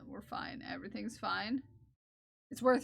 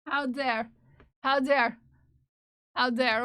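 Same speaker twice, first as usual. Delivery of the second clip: mock outrage; 7 dB louder than usual.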